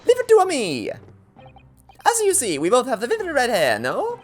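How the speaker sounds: put-on very high, excited Italian accent. Henchman cutting in on his boss, high excited Italian accent. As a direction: jump in eagerly, squeaky and hammed-up. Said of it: "these accents".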